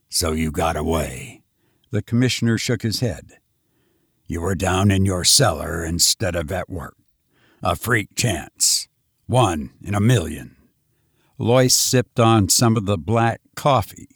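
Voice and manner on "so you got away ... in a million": lower, measured police commissioner; gruff commissioner. Acted. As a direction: state it flatly, case closed.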